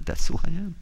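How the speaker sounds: a whispered reveal; eerie whispered confession. Acted. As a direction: hiss the answer like a secret. Creature reveals herself.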